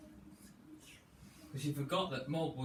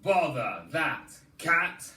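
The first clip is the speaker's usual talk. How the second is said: grumpy dad; 6 dB louder, slower than usual. Acted. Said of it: "He said".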